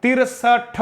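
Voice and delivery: तिरसठ spelled out slowly and clearly; slow, deliberate तिरसठ for learners; teacher stretching out तिरसठ; careful correct pronunciation. Shown as a demonstration. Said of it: "ये ठीक नहीं है".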